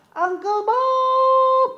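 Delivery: high, drawn-out sung call. Shown as a demonstration. Host leading the kids to call Uncle Bob, long high sung call. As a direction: call his name like across a yard.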